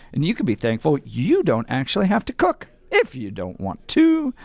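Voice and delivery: upbeat live ad read; radio ad read. Acted. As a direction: sell it like a radio host.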